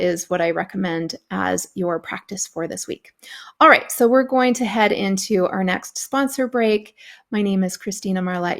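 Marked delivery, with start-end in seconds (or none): 3.6-6.9 whisper. Real, not acted. Unvoiced announcement.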